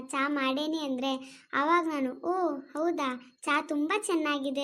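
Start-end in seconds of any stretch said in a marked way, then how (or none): 2.2-4.6 drawn-out, overdone praise of the tea, very slow; mock impressed praise. Shown as a demonstration. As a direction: show how she'd gush "ಓ ಹೌದಾ" slowly. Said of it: "ಅಂತೇನೆ, ಅರ್ಥ ಆಯ್ತಾ?". (ನಿಧಾನವಾದ ಅತಿಯಾದ ಹೊಗಳಿಕೆ)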